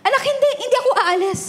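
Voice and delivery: laughing through it, high and light; laughing reassurance. Retold or imitated. Mother laughing while telling her toddler she won't leave. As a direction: giggle as you reassure the toddler.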